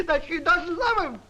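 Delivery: dramatic. Acted. Pitching the song dramatically.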